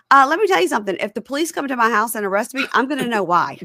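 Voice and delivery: high, sassy know-it-all voice; sassy pundit impression; mock talking head. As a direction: lay down the law in a high voice. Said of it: "she goes".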